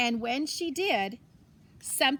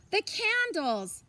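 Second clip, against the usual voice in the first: sudden remembering; 7 semitones higher, slower than usual. Acted. Remembering the forgotten candles.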